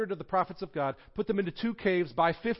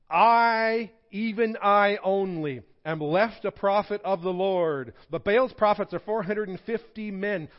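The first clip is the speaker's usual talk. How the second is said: bold proclamation; 5 semitones higher, 7 dB louder than usual. Retold or imitated. Elijah defies the people.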